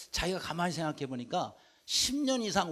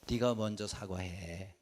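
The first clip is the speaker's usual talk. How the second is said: gentle Lord's voice; 9 semitones lower, 7 dB quieter, slower than usual. Acted. Quoting the Lord gently.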